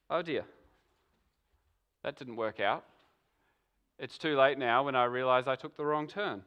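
a quiet mock sigh of regret; dismayed realisation. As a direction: say it to yourself as hope sinks. Imagined dismayed inner realisation.

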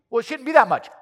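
playing the griping driver, voice pushed up; mock indignant complaint. Preacher voicing a ticketed driver, mock outrage.

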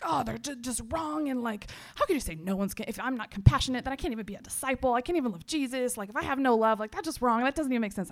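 mildly heated, tumbling complaint; retold angry venting. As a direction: vent in indignation, replaying the argument. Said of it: "honestly, I was so angry".

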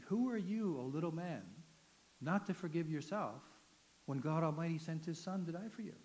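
pointed, commanding rebuke from a fellow inmate; a hint of a stern inmate pointing at him. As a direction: call him out like a preacher. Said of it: "he never talked like that to me".

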